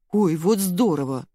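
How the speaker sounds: slow, delighted exclaim; gleeful. A narrator's reading. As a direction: react with odd glee to bad news. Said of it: "Не весть чему обрадовалась беременная".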